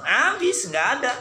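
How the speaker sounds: mock surprise. Explaining, sudden high exclamation.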